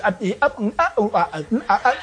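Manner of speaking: quick jerky syllables, jumping in pitch; choppy mock fast-forward babble; sped-up gibberish imitation. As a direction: mimic politicians played in fast motion. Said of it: "Do it real quick, and they're going".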